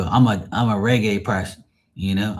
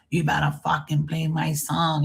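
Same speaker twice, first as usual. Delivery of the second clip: put-on high whiny drunk demand; mock drunk passenger; 5 semitones higher than usual. Drunk passenger demanding a song from the DJ, mocking high voice. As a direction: imitate a pushy drunk, pitched up. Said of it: "they were so drunk".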